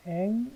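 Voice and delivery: 앵 dito alto e agudo, destacado sozinho; stressed syllable. Shown as a demonstration. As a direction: isolate the syllable 앵 sharply. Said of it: "요거 앵입니다".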